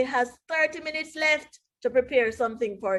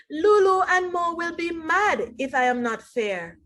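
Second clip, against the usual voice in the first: Tom's voice; 5 semitones higher than usual. Acted. Tom voiced worried in story.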